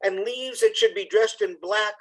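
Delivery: expressive poetry reading, lines drawn out; lively recital of a cheerful autumn poem. Acted. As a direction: recite it like a performance, savoring each line. Reads Dunbar poem aloud.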